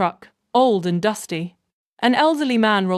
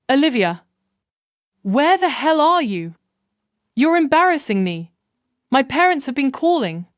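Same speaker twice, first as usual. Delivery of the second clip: angry yelling; 5 semitones higher than usual. Acted. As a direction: bark it in annoyance. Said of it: "Derek's voice explodes through the speaker".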